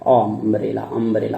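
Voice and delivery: अम्ब्रेला opening on the vowel अ; open a sound. Shown as a demonstration. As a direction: say अम्ब्रेला starting on अ. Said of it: "उसको पढ़ क्या रहे हैं". (अम्ब्रेला अ से शुरू)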